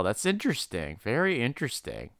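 soft, intrigued psychiatrist; quiet fascinated doctor. Retold or imitated. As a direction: murmur it with clinical interest. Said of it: "where it's like".

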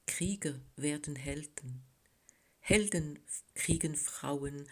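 terse poem recital, pauses between lines; measured verse with deliberate pauses; poetry reading. A narrator's reading. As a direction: read each short line as its own statement. Author reads her second poem.

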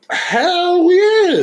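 loud. Real, not acted. Emphatic answer.

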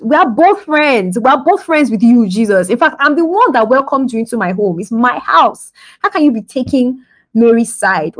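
acted-out indignant grumbling; accusing. Martha pointing fingers at Jesus over her sister, indignant. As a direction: protest the favouritism, lightly hammed up. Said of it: "she's now pointing fingers at Jesus".

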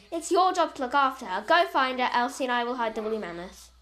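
firm, scolding orders; stern. Acted. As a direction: lay down the law. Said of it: "replied Dot in a stern voice".

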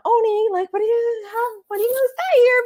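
very high, strained worried mom voice; mock anxious mom. Mom pleads with husband before he speaks, very high mock voice. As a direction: squeak it out like a nervous mother. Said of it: "you know".

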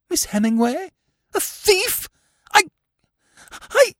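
high, faltering stammer; dumbfounded aunt, pitched right up; shocked disbelief. Acted. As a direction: break off, lost for words.

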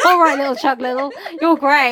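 laughing. Real, not acted. Laughing reaction.

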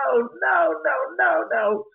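high-pitched New York accent impression. Goth queen starts talking to the spirit, high mock New York accent. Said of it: "talking with a New York accent".

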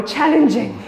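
laughing. Real, not acted. Laughs at the challenge.

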